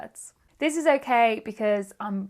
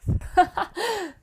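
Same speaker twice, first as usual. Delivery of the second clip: short high laugh; 8 semitones higher than usual. Real, not acted. Laughing at own breathlessness.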